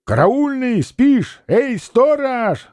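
high calling shout across the snow. A narrator's reading. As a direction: call out to the sleeping watchman. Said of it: "закричали люди у саней".

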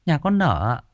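agitated villager. A narrator's reading. Villager tells healer of death.

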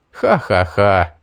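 slow, spoken-out ha-ha-ha; acted laugh. A narrator's reading. Hero mocking the woman chasing him, slow acted laugh. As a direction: laugh it out slowly, syllable by syllable. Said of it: "рассмеялся я".

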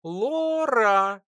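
put-on high thin squeak of a baby creature; a tiny creature squeaks its first word; squeaky tiny voice. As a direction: squeak the name like a newborn critter. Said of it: "пропищал тоненьким голоском".

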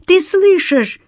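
high shout from the hallway. A narrator's reading. Eva calls to the detective from the hallway, high shout. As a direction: call him from the next room. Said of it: "— крикнула из прихожей Ева".

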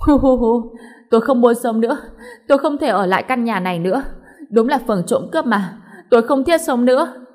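hammed-up loud sobbing wail; mother faking tears on the floor. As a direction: wail like a mother throwing a tantrum. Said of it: "bắt đầu khóc lóc".

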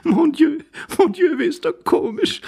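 very high, delighted feminine voice; highly amused lady. Acted. Lady finding the intruder comical, high and amused. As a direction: exclaim as if laughter is about to burst out. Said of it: "lachte die Dame von ganzem Herzen".

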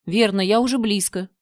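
loud, eager call; eager shout. Acted. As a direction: rush toward the voice. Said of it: "воодушевлённо крикнул он". (Анаргирос воодушевлённо кричит)

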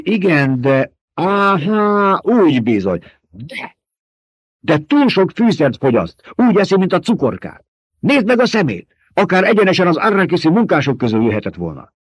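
high, loud sly baron voice, taunting his mentat; gloating Baron. A narrator's reading. The Baron needling his mentat about a wrong prediction, high and mocking. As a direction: purr it out like a fat, smug tyrant.

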